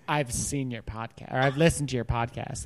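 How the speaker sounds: quiet mumbled imitation. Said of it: "been like".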